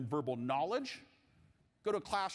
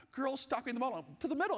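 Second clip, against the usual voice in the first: mock coach yell; 8 semitones higher, faster than usual. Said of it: "you've been screaming the entire first half".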